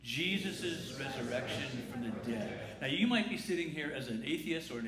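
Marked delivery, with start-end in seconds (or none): 0.0-2.6 slow recitation; a slow unison recitation; said together. Shown as a demonstration. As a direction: recite it slowly with the congregation. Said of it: "Could you say that with me".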